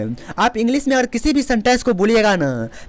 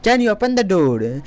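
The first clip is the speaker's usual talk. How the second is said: very slow, each word clear; slow teaching repeat; slow model sentence; much slower than usual. Shown as a demonstration. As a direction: spell it out slowly for students. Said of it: "slow repeat for learners".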